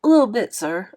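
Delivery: a fake yawn through the words. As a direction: pretend sleepy, yawning it out. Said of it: "I yawned real big".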